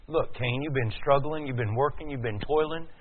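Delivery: ordinary talk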